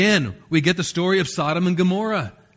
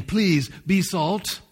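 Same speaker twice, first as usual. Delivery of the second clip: pleading request; 3 semitones higher, much slower than usual. Shown as a demonstration. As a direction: ask it gently, as a plea. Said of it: "He's saying, "You are salt".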